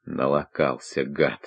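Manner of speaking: low, hushed loathing; hateful thought. A narrator's reading. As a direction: think it with quiet hatred. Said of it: "с ненавистью подумал он".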